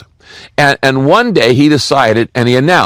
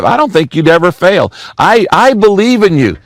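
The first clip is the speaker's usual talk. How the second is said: gushing admirer; 5 semitones higher than usual. Acted. Admirer gushes to the tightrope walker.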